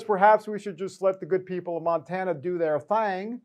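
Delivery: lightly put-on, drawled Montana accent; joking rural Montana accent. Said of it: "They don't have an accent like that".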